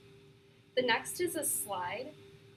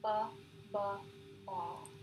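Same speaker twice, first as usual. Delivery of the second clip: bounce; 5 dB quieter than usual. Shown as a demonstration. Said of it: "Your turn".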